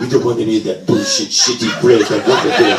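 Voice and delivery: mock French-accented irreverence; hammed-up French accent. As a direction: grumble in a comic French accent. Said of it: "I would say it with a French accent".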